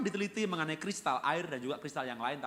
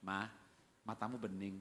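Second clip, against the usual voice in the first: tender compliment; 5 semitones lower, 8 dB quieter than usual. Acted. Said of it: "coba bilang sama istrinya".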